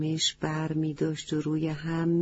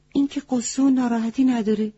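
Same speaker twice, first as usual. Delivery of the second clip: surprised wise goat; 5 semitones higher, faster than usual. Acted. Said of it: "با تعجب گفت".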